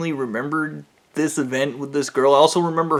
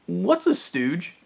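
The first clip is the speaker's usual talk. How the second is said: slow, higher puzzled asking, rising at the end; puzzled question; 4 semitones higher, 3 dB quieter, slower than usual. Retold or imitated. Coworker slowly asks what a stooge is, puzzled. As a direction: ask it like you've never heard the word. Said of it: "And she's".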